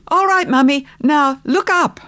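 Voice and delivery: put-on high, childlike call to Mummy; excited little boy. A narrator's reading. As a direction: call it out as a child ready to spring a surprise. Excited child calling down to mother.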